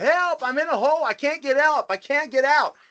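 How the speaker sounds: put-on shrill, loud screaming yell, pitched way up. Telling a joke about a guy stuck in a hole, retelling a yell for help. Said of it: "He's yelling and screaming".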